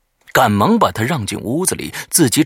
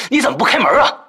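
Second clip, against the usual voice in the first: high, loud irritated call; annoyed call; 13 semitones higher, 7 dB louder, faster than usual. Acted. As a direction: call out, fed up. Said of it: "冲着卧室说道".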